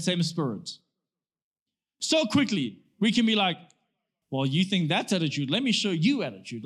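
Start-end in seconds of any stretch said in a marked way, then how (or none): 4.3-6.6 mock retort with attitude; giving attitude back. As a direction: imitate someone answering attitude with attitude. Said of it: "when someone comes with that attitude".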